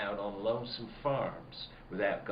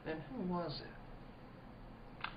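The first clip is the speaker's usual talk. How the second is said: breathy question; 7 semitones higher, 10 dB quieter, much slower than usual. Acted. Sheriff's pointed accusing question.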